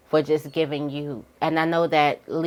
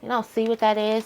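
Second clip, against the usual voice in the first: nurturing; 5 semitones higher, 4 dB quieter than usual. Retold or imitated. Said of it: "I want the comfort and the nurture".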